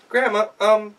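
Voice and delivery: put-on high, loud child's voice; sweetly scheme like a child; girl tricking the wolf with a request; clever girl. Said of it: "and she said".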